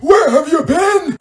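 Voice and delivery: high, drawn-out mock screech; exaggerated scolding teacher, slow and high-pitched; Miss Johnson. Pupil imitating the teacher waiting for them, mock screech. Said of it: "Miss Johnson was like".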